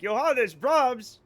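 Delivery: put-on slow, high excited children's cry; mock children shouting Johannes Brahms; kids shouting name. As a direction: call out the name like thrilled kids. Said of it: "And the children are like".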